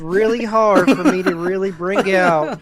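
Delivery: exaggerated Southern accent, joking with friend Gary; full Southern accent. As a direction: play up a mock Southern accent for laughs. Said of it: "Let me, let me go full Southern".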